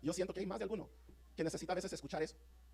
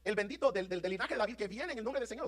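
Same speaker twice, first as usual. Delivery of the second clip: crowd's cry; 4 semitones higher than usual. Retold or imitated. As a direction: voice the crowd's plea. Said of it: "Le están diciendo".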